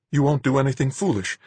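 small, high, anxious question; thin little worried voice; tiny voice. A narrator's reading. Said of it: "asked in a tiny voice".

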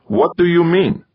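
high, baffled demand; exasperated. A narrator's reading. Gaeta challenging the computer's answer, exasperated. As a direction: demand an explanation, pitch way up.

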